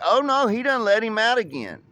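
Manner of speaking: high, loud mock dismay; loud exclamation. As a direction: blurt it out like the guys at work. Coworkers exclaim dog loose again.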